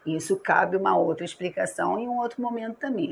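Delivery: normal talking voice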